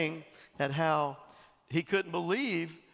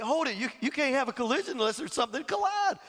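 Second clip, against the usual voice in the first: exasperated shout; 5 semitones higher, faster than usual. Retold or imitated. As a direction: cut him off with a fast shout. Retold argument, speaker objects loudly.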